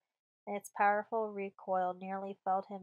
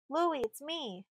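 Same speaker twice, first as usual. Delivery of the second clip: husky; 6 semitones higher, slower than usual. Acted. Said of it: "husky with strain".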